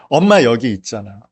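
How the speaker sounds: a hint of an exasperated mother chiding her child; lightly voiced mom, half-cross and half-comforting; mother's mock scolding. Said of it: "라면서 오히려 화를 내는 경우가 있어요". (아이를 나무라는 엄마의 가벼운 흉내)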